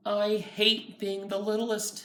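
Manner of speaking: put-on high childish whine. Child complaining, higher.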